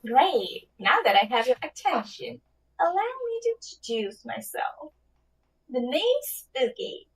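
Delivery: genie voice. Pretend. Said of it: "give it your best genie voice".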